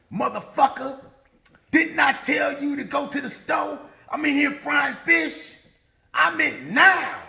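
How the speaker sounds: high-pitched, irate scolding; angry wife scolding. Retold or imitated. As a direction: chew him out as the fed-up wife, pitch climbing. Angry wife scolding husband at door.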